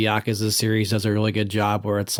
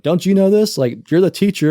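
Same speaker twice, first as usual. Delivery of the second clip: put-on higher, louder smug kid taunting the teacher; a know-it-all child calling out the teacher, higher and louder; bratty kid; 8 semitones higher, 5 dB louder than usual. Smug schoolkid to the substitute teacher, higher and louder. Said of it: "the kid's like".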